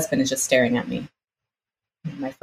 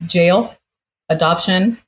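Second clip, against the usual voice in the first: shocked disbelief; 3 semitones higher, 5 dB louder than usual. Retold or imitated. Shocked reaction to lawyer's warning.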